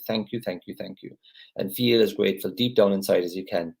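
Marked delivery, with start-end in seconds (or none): 0.1-1.2 soft thankful murmur. Shown as a demonstration.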